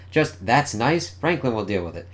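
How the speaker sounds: acted exasperated echo of a placid parent; incredulous quoting back. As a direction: throw their brush-off back at them in disbelief. Daughter quotes parents' brush-off back.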